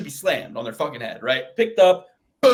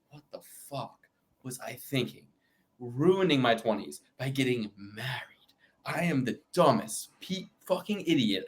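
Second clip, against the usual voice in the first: mock regret; 4 semitones lower, 6 dB quieter than usual. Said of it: "then he's gonna be like".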